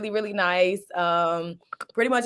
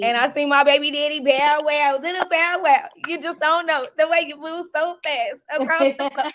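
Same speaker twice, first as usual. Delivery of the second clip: higher, giddy fan gushing; 5 semitones higher than usual. Real, not acted. Fan gushing over her childhood crush, giddy.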